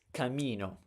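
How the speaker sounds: camino stressed on the middle syllable "mi"; penultimate stress. Shown as a demonstration. Teacher giving the correct word, penultimate stress. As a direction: lean on "mi" in camino. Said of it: "And the same is for this".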